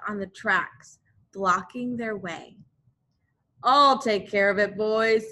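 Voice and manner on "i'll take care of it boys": a touch louder, fast, easy confidence; confident Mose. Acted. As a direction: brush off the trouble lightly. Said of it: "said Mose".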